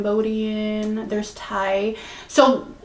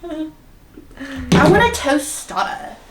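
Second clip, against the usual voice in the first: slow, drawn-out American-accented tostada; 5 semitones higher, much slower than usual. Shown as a demonstration. Showing friend how they order food, exaggerated American accent. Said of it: "American accent".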